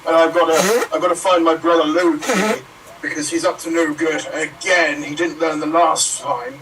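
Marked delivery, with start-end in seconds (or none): 0.1-5.0 Thor. Acted. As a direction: charge through it like a brash god. Thor on his quest.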